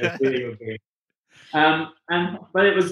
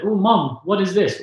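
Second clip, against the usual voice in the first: put-on childish quote; 6 semitones higher than usual.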